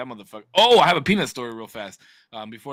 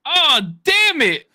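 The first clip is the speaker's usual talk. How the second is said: put-on slow, much higher child's "Oh, damn it"; kid's slow high curse; 12 semitones higher, 7 dB louder, much slower than usual. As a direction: drag it out like a little kid cursing. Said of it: "And he was like".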